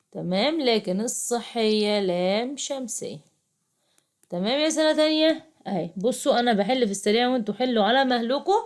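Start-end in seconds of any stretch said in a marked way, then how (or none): 4.6-8.6 calling the class. Real, not acted.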